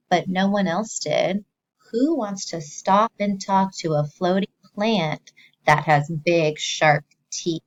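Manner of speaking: lively storybook read-aloud; animated story voice for a class; reading to children. Acted. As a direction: read it like picture-book time for kids. Teacher reads story aloud.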